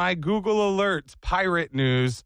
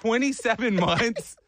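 surprised; 6 semitones higher than usual. Real, not acted. Reacting to cohost's figure.

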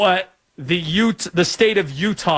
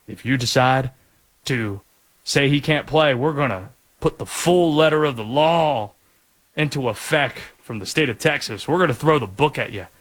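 a light mock Southern accent for the attorney general. Host mock-quotes the Texas AG threatening the Big 12, light Southern accent. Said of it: "Don't know why I did a Southern accent like that".

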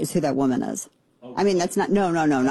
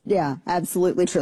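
ordinary talk

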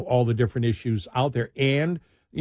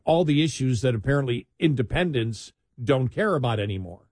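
dry, mocking tone; sarcastic. Real, not acted. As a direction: say it with irony. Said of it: "I'm saying that sarcastically".

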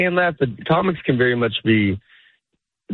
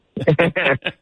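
higher-pitched put-on laugh; fake laugh; 5 semitones higher than usual. Shown as a demonstration. Interviewer answers the comic with a fake laugh of their own. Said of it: "here's mine".

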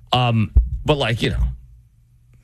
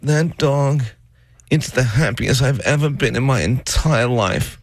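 doting mom; 5 semitones higher than usual. Retold or imitated. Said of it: "she literally says this".

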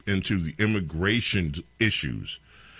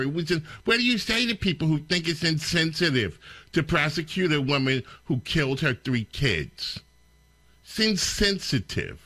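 pitched-up incredulous parody; mocking the question; 5 semitones higher than usual. Host parodying the reporter for listeners, scornful.

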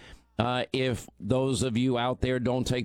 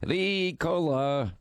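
slow, sung-out Ricola call; Ricola jingle; 4 semitones higher, much slower than usual. Pretend. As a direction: stretch it like the ad. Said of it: "I'm sucking on Ricola".

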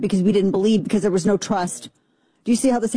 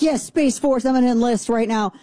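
excited; 5 semitones higher than usual. Retold or imitated. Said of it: "And I'm so excited".

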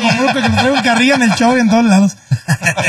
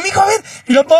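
imitating an eager son, higher pitch; excited kid; 5 semitones higher, faster than usual. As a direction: mimic the boy begging his dad, mira pa. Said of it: "ya es que se emociona".

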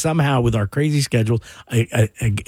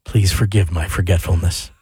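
low, slow, creepy delivery; 6 semitones lower, slower than usual. Pretend. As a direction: read it like a horror villain. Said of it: "in that creepy voice".

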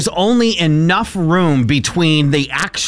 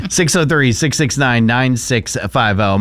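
radio call-in plug. Acted. Repeated call-in number.

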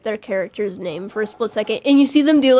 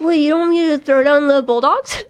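higher, louder playful objection; mock protest; 5 semitones higher, 6 dB louder than usual. Teammate jokingly objecting to dropping Throwdown from the name, mock protest. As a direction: protest in pretend dismay.

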